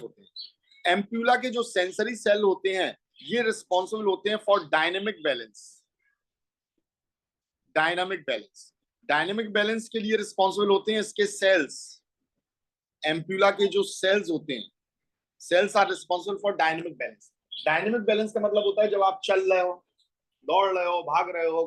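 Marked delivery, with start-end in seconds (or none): 4.4-8.7 very slow, lower, every word laid out; slow term. Shown as a demonstration. Teacher giving the English term for notes, very slow. 15.4-17.3 very slow, each word spaced; slow definition. Shown as a demonstration. Teacher dictating the English definition, very slow.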